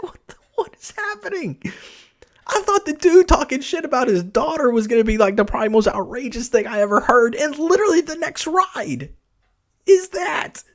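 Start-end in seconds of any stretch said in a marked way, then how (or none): 0.0-1.6 squeaky high-pitched astonishment; can't believe what you just heard; stunned disbelief. Real, not acted. Driver reliving a passenger's absurd ride, squeaking in disbelief. Baffled by passenger's outrageous story. 9.8-10.6 excited punchline. Real, not acted. Driver topping his own story, shouting the payoff.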